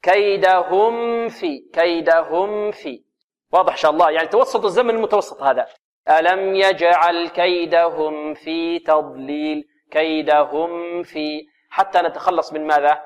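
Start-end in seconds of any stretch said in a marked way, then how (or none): 0.0-3.0 slow كيدهم في with م held moderately, then released to ف; careful drawn-out demo of كيدهم في; medium-length meem. Shown as a demonstration. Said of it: "يعني زمن متوسط". 6.1-11.5 slow recitation, م of كيدهم distinct before ف; measured tajweed with a clean meem in كيدهم; clear meem, not hidden. Shown as a demonstration. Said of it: "من إخفاء الميم".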